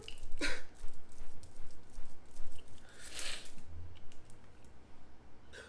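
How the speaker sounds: long, voiceless tearful outburst; crying. Real, not acted. Granddaughter breaking down over her late grandmother, crying. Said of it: "oh my gosh, I'm really crying".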